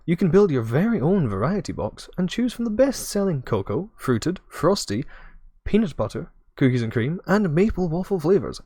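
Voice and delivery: cheery ad read, stretched words; infomercial voice. Acted. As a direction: pitch it like a late-night ad. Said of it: "I'm gonna do my best, like, infomercial voice".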